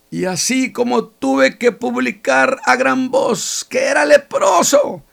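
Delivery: a high, loud and insistent answer; loud reply. Acted. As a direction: defend yourself by shouting. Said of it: "Y él me diría". (el leproso responde a gritos, con firmeza)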